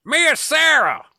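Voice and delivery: slow, high, posh-sounding Mia Sara; fancy pronunciation. Retold or imitated. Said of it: "I thought it was fancy".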